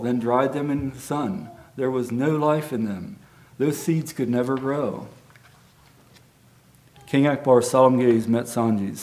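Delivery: storybook reading voice for the congregation; gentle storyteller pacing; story narration. A narrator's reading. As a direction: read it like a bedtime tale. Reads children's story aloud.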